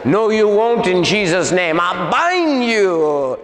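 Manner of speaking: high, forceful retold command; binding the demon. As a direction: re-enact the exorcist's cry, stretching the last words. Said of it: "I said".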